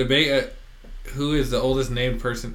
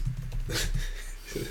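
quiet, breathy chuckle; soft laugh; 10 dB quieter than usual. Real, not acted. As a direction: chuckle softly at the odd name. Amused by the odd name.

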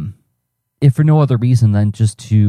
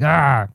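mock frustrated "argh"; 5 semitones higher than usual. Voicing his frustrated internal dialogue, mock exasperated. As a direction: let out a pretend cry of frustration. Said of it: "like, that internal dialogue".

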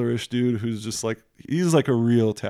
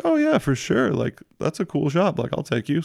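put-on higher, eager voice for the girlfriend; imitating girlfriend; 6 semitones higher than usual. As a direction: chirp it like she's happy to help.

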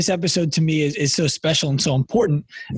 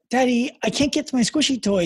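put-on higher, pleading little-girl voice; imitating his daughter; 7 semitones higher than usual. Dad voices his daughter asking for her toy, higher pleading child. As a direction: plead like a small child who can't reach. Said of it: "And she said".

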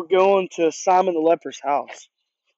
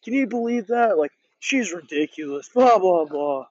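scoffing. Retold or imitated. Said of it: "kinda like arrogantly, scoffing at her".

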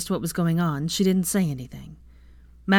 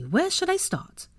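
gleeful; 12 semitones higher, slower than usual. Acted. Ginny gleeful, rubbing hands.

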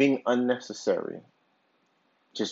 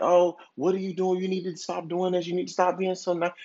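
raised pitch, nagging jealous complaint; jealous wife; 5 semitones higher than usual. Retold or imitated. Wife scolding her husband about the coworker, in a mock jealous nag. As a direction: play the jealous wife scolding him, a bit higher. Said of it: "And she gets jealous".

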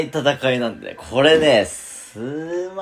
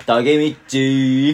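drawn-out impression; slower than usual. Does a catchphrase impression in game.

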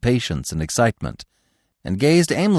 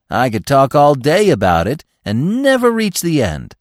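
satisfied; 5 semitones higher, 6 dB louder than usual. A narrator's reading. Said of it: "said Gobo with satisfaction".

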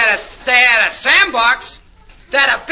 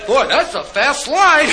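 put-on kid voice; 3 semitones higher, slower than usual. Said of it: "They'd say".

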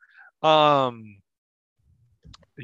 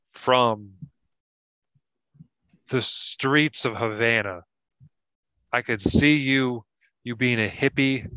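put-on Kentucky pirate accent. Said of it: "this pirate from Kentucky talks".

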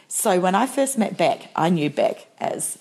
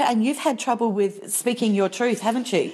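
kindly and compassionately; 3 semitones higher than usual. Retold or imitated. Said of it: "kindly and compassionately".

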